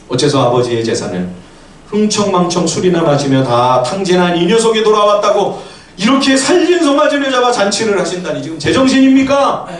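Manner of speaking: rising indignant tirade; incensed. Acted. Elder son berating father over the feast, incensed. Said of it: "뚜껑이 확 열렸어요".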